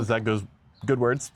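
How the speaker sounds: talking through hiccups; a hiccup breaking the words. Real, not acted. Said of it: "Sorry, I'm, like, hiccuping".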